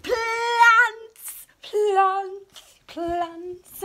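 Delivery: high, loud squeal that falls back down; thrilled squeal fading to normal; excited squeal. Real, not acted. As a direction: squeal with delight, then settle. Squealing over new plant clothes.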